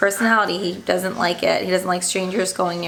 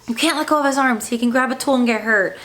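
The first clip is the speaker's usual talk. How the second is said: retold yell; 4 semitones higher than usual. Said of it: "the dentist kinda yelled at me".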